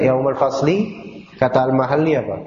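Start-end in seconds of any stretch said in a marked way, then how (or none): 0.0-0.9 yaumal fasli drawn out slowly, each word spaced, rising at the end; slow prompting. Shown as a demonstration. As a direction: spell out yaumal fasli slowly so the student catches it.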